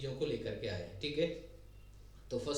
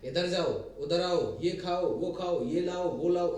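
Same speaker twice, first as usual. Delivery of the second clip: loud, blunt commands, one after another; bossy orders; 3 semitones higher, 7 dB louder, slower than usual. Shown as a demonstration. Teacher demonstrating orders to students, loud and blunt. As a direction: snap out each order like a boss.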